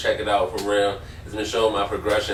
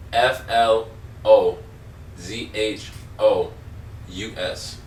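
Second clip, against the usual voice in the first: spelling out slowly; slower than usual. Shown as a demonstration. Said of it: "You wanna spell it out for him?".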